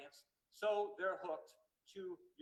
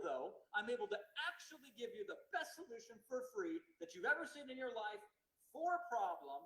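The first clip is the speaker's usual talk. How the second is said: webinar opener demo; 2 semitones higher, 3 dB louder than usual. Shown as a demonstration. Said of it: "you can use the A B C hook, and it goes like this".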